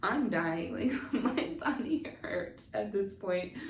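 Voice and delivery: loud, breaking into laughter; helpless chuckles between the words; laughing through it. Real, not acted. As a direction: tell it through real laughs. Laughs recounting her pain.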